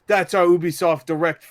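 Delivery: lightly imitated British presenter; mock British accent. Podcaster retelling the Ubisoft presenter's sign-off, mock British accent. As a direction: put on a hint of British slang delivery. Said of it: "he was not British".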